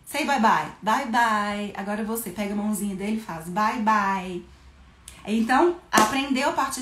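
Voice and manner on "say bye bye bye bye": put-on cheerful goodbye to a child. Shown as a demonstration. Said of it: "você pode falar".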